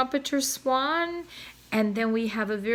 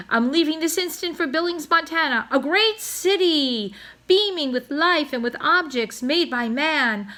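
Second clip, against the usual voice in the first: dramatic farewell; 6 semitones higher, 4 dB louder than usual. A narrator's reading.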